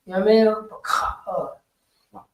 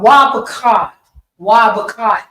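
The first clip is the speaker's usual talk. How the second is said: "Why Bakad" pushed out louder; mock teacher emphasis; 2 semitones higher, 5 dB louder than usual. Student mimicking the teacher's loud "Why Bakad". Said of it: "he emphasizing".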